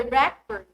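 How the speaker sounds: RECord, stressed on REC; noun stress. Shown as a demonstration. Teacher's example sentence, noun RECord stressed on first syllable. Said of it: "stress on the first syllable".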